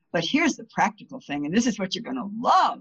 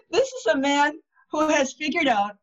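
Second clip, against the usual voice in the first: excited; 6 semitones higher than usual. Real, not acted. Excited about the book.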